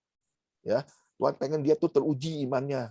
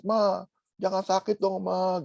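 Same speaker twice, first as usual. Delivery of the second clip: higher, slow pleading child, a touch of mock tears; whiny crying child; 5 semitones higher, much slower than usual. Preacher imitates a child begging sick mama, mock whining. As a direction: beg mama like a whimpering little kid. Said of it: "Anak kecil ini nangis-nangis".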